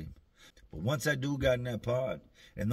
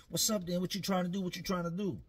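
higher, tough-guy dare; mock challenge; 7 semitones higher than usual. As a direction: act hard and call him out. D picking fights.

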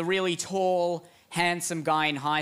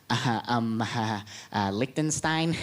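nervous stammer; 7 semitones lower than usual. Acted. Small country stammers, scared.

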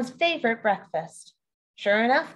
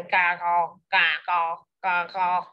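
crying frogs; 5 semitones lower, slower than usual. Acted. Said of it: "sit by streams and cry".

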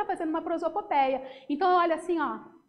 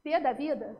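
outburst; 5 dB louder than usual. Shown as a demonstration. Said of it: "Em vez de tô com raiva, você diz".

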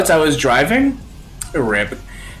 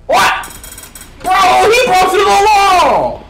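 high, stunned outcry; shocked; 12 semitones higher, slower than usual. Real, not acted. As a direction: sound amazed. Character broke the wall.

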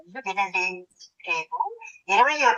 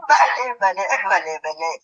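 grotesque laughing; 2 semitones lower, slower than usual. Acted. Accused son-in-law amused by the family's suspicion, grotesque laughing. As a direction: laugh through delighted praise. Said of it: "ఏమిటి ఆ వికారపు నవ్వులేంటి?".

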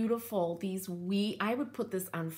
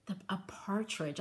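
whispered; 6 dB quieter than usual. Real, not acted. Searching for the bird's name.

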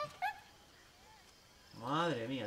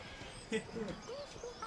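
amused chuckle; 9 dB quieter than usual. Real, not acted. Amused by the car.

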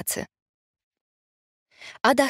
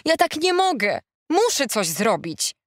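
high lament, slowing at the end; moaned; 7 semitones higher than usual. A narrator's reading. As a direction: wail mildly that it's too much. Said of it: "jęknęła Ada".

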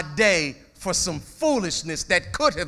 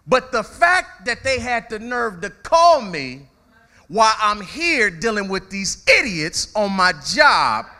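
higher, slow, exasperated rant; outraged parent; 5 semitones higher, 4 dB louder than usual. Retold or imitated. Preacher voicing angry working parent, higher and louder. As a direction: let the indignation rise.

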